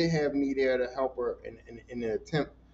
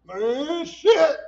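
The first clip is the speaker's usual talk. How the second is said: retold curse; 10 semitones higher, 7 dB louder than usual. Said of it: "I was like".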